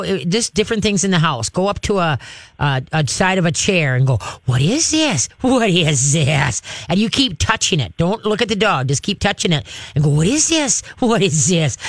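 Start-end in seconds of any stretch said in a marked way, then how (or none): 4.5-6.6 playful wondering question to lure the dog; playful curious. Shown as a demonstration. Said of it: "Laugh with your voice". 10.1-11.8 laughing, intrigued voice to draw the dog in; playful curious. Shown as a demonstration. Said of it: "Laugh with your voice".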